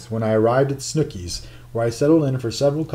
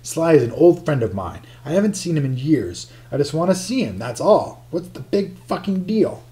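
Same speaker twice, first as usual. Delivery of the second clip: rising frustration; 5 semitones higher than usual. Acted. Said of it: "I tried not to raise my voice".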